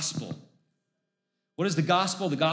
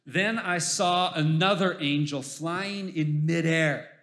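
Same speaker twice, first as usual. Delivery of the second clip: solemn reading of Revelation; scripture reading. Acted. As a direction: read the vision with awe. Reads scripture aloud.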